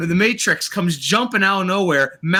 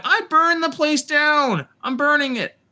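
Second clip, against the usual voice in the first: higher-pitched, hammed-up frantic quote; mock frantic cry; 5 semitones higher than usual. Reviewer mimics May running out with news of the fire, mock frantic. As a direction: imitate a panicked announcement, pitched up.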